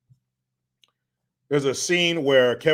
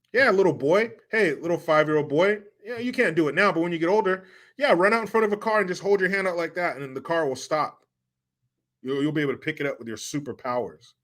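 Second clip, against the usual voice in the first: put-on higher, sing-song talking-down-to-a-kid voice; mock encouragement; 5 semitones higher than usual. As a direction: sarcastically coax a little boy. Mock advice to a child.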